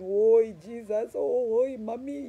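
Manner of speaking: high, loud cry of "Oi, Jesus, oi, mommy"; mock desperate cry. Hiker reenacting her cries to Jesus near the peak, high and loud. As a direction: call out for help like an exhausted hiker. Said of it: "crying to God for help".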